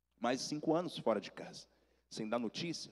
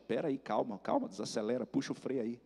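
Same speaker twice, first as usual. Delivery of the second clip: calming her down; 3 dB quieter than usual. Retold or imitated. Slowing down his eager aunt.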